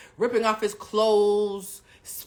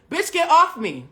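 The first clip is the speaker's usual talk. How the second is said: higher, louder mock yell; retold scream; 9 semitones higher, 6 dB louder than usual. Boyfriend yelling at her to get off him, mock yell. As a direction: shove the words out like a panicked yell. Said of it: "he starts screaming".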